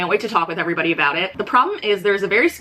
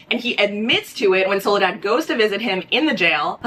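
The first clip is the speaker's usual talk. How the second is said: out of breath. Real, not acted. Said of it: "Sorry, I'm running out of breath".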